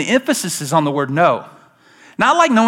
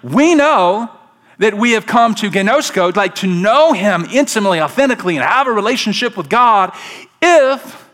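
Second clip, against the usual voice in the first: lightly voiced God answering; 5 semitones higher than usual. Pastor voicing God's answer to the church, raised and emphatic. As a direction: give the answer like a reveal. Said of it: "He says".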